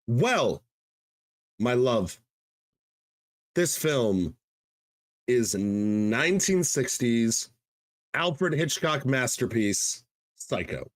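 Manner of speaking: slow, deliberate announcement with long pauses; dramatic reveal. Real, not acted. Host unveils a favorite film to the co-host, dramatic reveal. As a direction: measure out each phrase for suspense.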